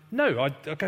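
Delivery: usual speaking voice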